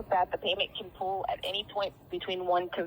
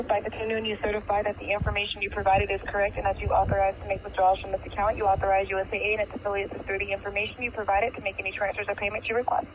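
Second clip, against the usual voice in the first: disclosure read. Real, not acted. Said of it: "I'm in automatic mode".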